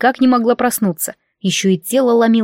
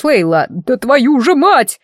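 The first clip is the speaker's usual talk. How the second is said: swearing; 4 semitones higher, slower than usual. A narrator's reading. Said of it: "выругался он".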